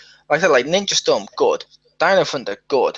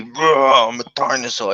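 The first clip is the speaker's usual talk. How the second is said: dinosaur voice; 4 semitones lower, 3 dB louder than usual. Shown as a demonstration. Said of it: "if I was to do a dinosaur voice".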